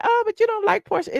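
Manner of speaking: high, defensive mock protest; mock viewer objection. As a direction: toss it out like a heckler's jab. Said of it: "y'all gonna be like".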